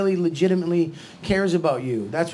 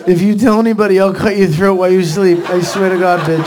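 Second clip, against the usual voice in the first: loud, hard threat at normal pitch; mock-menacing warning; sudden threat; 7 dB louder than usual. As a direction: drop the wailing and threaten forcefully. Sudden threat after the breakdown.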